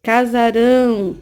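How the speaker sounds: casarão drawn out slowly with a nasal ending; slow demonstration of the nasal ão in casarão. Shown as a demonstration. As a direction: stretch casarão, sending the ão through the nose. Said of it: "serve pra dar um som nasal".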